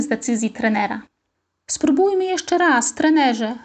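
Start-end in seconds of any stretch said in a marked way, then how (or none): 1.7-3.5 high, slow pleading request. Acted. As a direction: beg the coach for one more try. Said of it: "prosił". (prosząco, błagalnie)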